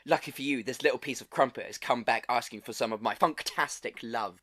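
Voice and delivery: lightly put-on British Funktastic accent, half laughing; a hint of a smug British charmer accent. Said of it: "I'm gonna do it in my best Funktastic accent".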